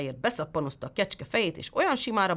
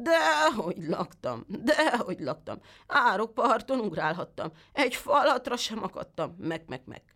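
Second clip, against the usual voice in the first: lightly voiced sly goat, higher, ending in a bleat; whining goat; 6 semitones higher than usual. The goat lies to the tailor in a whining goat voice. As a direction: whine it and trail into a bleat.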